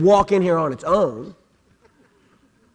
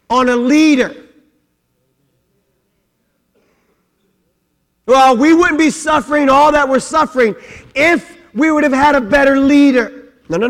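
loud, high preaching voice; 6 semitones higher, 6 dB louder than usual. Acted. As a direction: preach it hard to the congregation. Preaching at full force.

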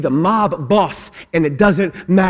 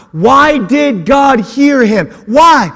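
preaching at full force; 9 semitones higher, 4 dB louder than usual. Acted. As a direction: build the congregation up, hammering each phrase.

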